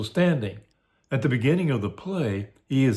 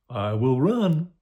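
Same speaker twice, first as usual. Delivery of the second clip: decision; 4 semitones higher, slower than usual. Acted. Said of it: "The fiend gives the more friendly counsel".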